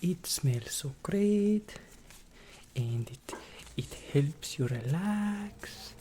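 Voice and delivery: slow soft relaxing whisper; slow soothing whisper. Acted. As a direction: soothe the listener.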